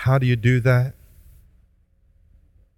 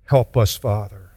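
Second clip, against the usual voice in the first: pastoral prayer. Acted. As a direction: pray gently on behalf of the congregation. Leads closing prayer.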